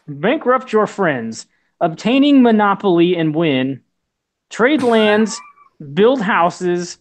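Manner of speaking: Russian accent. Shown as a demonstration. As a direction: read it like a Russian announcer. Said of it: "Can you read this in a Russian accent?".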